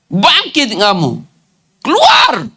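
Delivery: high, slow command ending in a cry; sharp final command. Acted. The Lord ordering the disciples out, high and commanding. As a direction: drive it home: rise and go. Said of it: "Maka Tuhan berkata".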